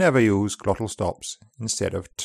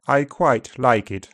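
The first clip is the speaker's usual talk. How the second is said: upper RP, back diphthong. Shown as a demonstration. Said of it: "Upper R P, back".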